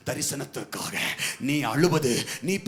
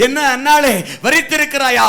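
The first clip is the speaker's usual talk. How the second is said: acted accusing priest; 8 semitones higher, 13 dB louder than usual. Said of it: "ஊழியக்காரன் கூட புரிஞ்சுக்க முடியல".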